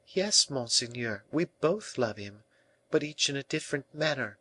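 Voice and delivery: heartfelt reply. A narrator's reading. La Valliere answers Colbert about loving the king, heartfelt. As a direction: answer softly with feeling. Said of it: "with such an accent that the heart".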